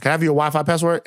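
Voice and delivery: rattled off fast; quick mock repeat. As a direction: fire off the neighbor's ask quickly. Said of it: "is what she asked".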